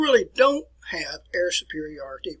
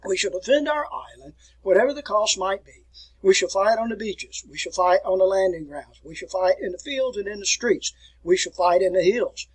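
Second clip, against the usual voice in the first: Churchill oration; 3 semitones higher, 5 dB louder than usual. Retold or imitated. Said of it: "one of his quotations was".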